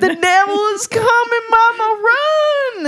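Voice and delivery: high, loud hammed-up accented cry; mock-panicked warning to Mama in an accent; put-on character accent. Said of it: "I'm speaking in his accent".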